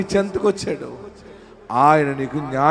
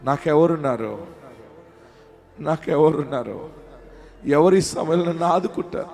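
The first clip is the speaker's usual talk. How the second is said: imitated forlorn lament. Preacher voicing a believer with nobody to turn to, forlorn. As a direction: voice someone lonely asking hopelessly, with pauses. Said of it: "అని ఏడుస్తున్నావా?".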